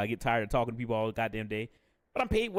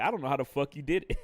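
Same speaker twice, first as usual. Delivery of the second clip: laughing disbelief; faster than usual. Retold or imitated. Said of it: "I was like".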